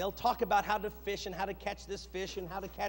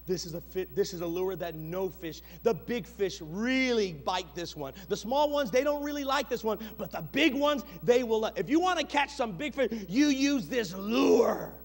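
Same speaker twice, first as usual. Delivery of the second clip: sly, grinning lure pitch; a hint of a smiling TV salesman; smug salesman voice. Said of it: "And they smile".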